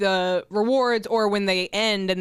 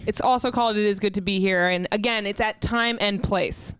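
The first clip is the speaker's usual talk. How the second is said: wrestling promo. Pretend. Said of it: "You cut a promo".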